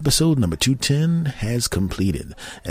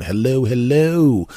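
drawn-out, higher hello, louder; playful greeting; 5 semitones higher, 5 dB louder, slower than usual. Pretend. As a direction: sing out a slow mock greeting. Playful greeting to British listeners.

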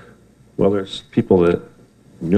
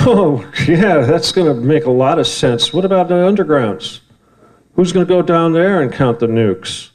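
higher, mocking disbelief; scoffing at nuclear talks, higher and sarcastic; sarcastic retort; 6 semitones higher than usual. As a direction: scoff at the idea.

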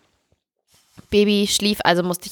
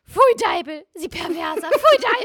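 very high, shrill disgust; disgusted lady; 10 semitones higher, slower than usual. Pretend. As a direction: spit out the words like a prim old lady.

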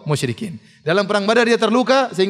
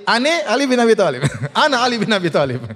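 laughing quote; 2 semitones higher than usual. Retold or imitated. Joking Betawi-style quote, laughing.

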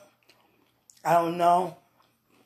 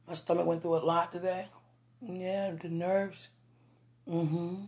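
half asleep, drifting off; nodding off. Real, not acted. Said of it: "I'm falling asleep".

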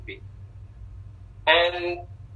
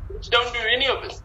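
put-on child crying; 6 semitones higher, faster than usual. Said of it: "he starts crying".

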